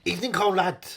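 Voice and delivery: loud, put-on Russian accent; Russian accent audition. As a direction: declaim it in a hammed-up Russian accent. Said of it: "I could do a Russian accent".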